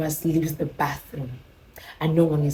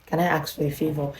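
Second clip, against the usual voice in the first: softer imitation of the neighbor; 7 dB quieter than usual. Neighbor asking her visitor a favor, soft. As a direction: ask it in a hushed, gentle way. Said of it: "she is so, ah, soft".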